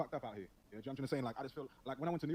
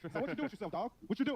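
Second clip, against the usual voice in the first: higher-pitched mock yell; imitated yelling; 9 semitones higher, 4 dB louder than usual. New York student questioning him in his face, mildly yelled imitation. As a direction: imitate someone pestering loudly at close range. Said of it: "why is this brother yelling at me in my face".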